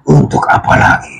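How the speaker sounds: breathy, high melodramatic question; soap opera drama. Acted. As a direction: whisper it like a soap villain. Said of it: "kayak sinetron Cinta Fitri". (bisikan dramatis ala sinetron)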